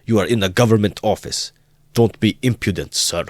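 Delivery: high, loud furious shout, GOVERNMENT stressed. A narrator's reading. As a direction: shout at the student in a rage. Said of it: "so furious".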